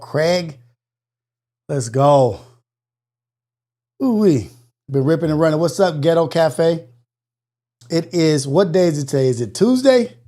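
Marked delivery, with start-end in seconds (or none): 4.0-4.5 excited ooh-wee. Real, not acted. Excited exclamation after arriving. 9.3-10.2 surprised question. Real, not acted. Checking the day, pitch jumps.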